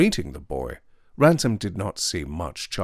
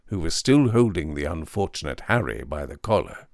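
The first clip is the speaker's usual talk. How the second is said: loud, hard refusal; angry Weston; 5 semitones higher, 6 dB louder than usual. A narrator's reading. Weston refuses to welcome the intruder, loud and angry. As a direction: bark at the intruder. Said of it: "said Weston".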